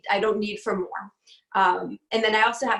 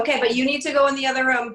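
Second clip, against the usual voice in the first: firm, louder instruction to leave; firm mom order; 3 semitones higher, 4 dB louder, faster than usual. Real, not acted. Mom telling her son to leave during the call, firm and louder. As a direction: send him out firmly.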